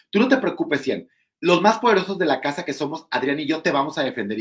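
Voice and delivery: high swaggering promise; mocking the cocky rival. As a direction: imitate him bragging again, corrected. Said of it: "No, a Cian".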